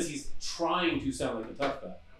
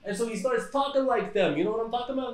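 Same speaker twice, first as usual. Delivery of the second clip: put-on higher-pitched old-school Brooklyn Italian accent; old Brooklyn gangster; 6 semitones higher than usual. Shown as a demonstration. Host showing friends how old Bensonhurst gangsters talk, old Brooklyn accent. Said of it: "You hear the voice I'm using right now".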